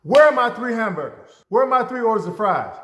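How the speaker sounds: loud, high, indignant customer voice; demanding customer. Retold or imitated. Customer at the counter demanding missing food, loud and indignant. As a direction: bark out the complaint like a wronged customer.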